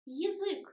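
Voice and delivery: "Язык" as yi-ZYK, stress on the end; unstressed Я as И. Shown as a demonstration. Teacher repeating the example, "Язык" with reduced i vowel. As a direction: open "Язык" with yi instead of ya. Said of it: "but we pronounce И".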